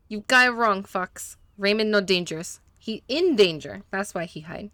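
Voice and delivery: lightly put-on Spanish accent, broken English; a hint of a Spanish-speaking mechanic, eager to please; gentle Spanish accent, a little nervous; mechanic's Spanish accent. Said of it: "that was on purpose that he was talking that way".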